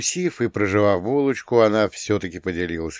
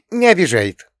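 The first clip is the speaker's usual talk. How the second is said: high, louder snort of denial; 10 semitones higher, 7 dB louder than usual. A narrator's reading. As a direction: brush it off with a scoff. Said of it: "фыркнула она". (Таня отмахивается от брата — высокое громкое фырканье)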